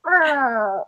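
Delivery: high mock error tone from an app; drawn-out imitation of a failed-answer alert; imitated app error sound. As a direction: mimic the app rejecting an answer. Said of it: "and it goes".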